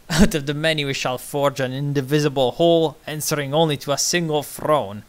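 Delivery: booming rally oration; dictator's speech. Acted. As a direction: address the crowd like a strongman. Continues reading the speech.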